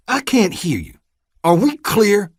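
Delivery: loud, high, bullying demand; barked demand. Acted. Deputy demanding Vernon answer, loud bark. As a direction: force the answer out of him.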